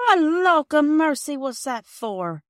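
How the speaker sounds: put-on high, loud, slow surprised cry of an old porter; gruff old porter Perks. Old porter Perks surprising the girl, loud and slow. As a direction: hail the girl, half startled, half teasing.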